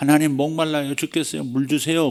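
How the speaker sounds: earnest, pleading tone.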